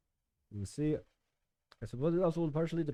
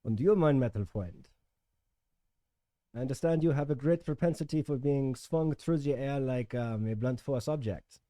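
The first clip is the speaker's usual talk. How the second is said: put-on German accent; 2 semitones higher than usual. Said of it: "talk in a German accent".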